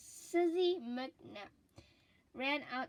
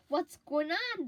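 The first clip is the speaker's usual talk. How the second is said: put-on raised kids' shout, louder; shouting children; 5 semitones higher, 6 dB louder than usual. Children shouting to each other in the street, loud. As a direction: call out to the street in alarm. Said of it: "they shouted".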